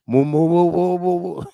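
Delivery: lightly mooing like a cow to mock him; a hint of a mocking cow. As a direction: moo like a cow instead of an answer. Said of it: "did not answer the question".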